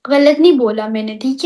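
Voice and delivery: whispered insistence; whispered defiant denial. Real, not acted. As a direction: hiss it under your breath, stubborn. Insisting during couple argument.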